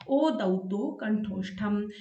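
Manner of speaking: slow sutra recitation. Shown as a demonstration. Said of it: "अब हम पढ़ते हैं आठवां".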